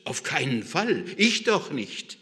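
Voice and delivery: indignant protest, rising in pitch and force; emphatic, offended denial. Acted. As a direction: refuse it, affronted. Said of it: "sagt Petrus entrüstet".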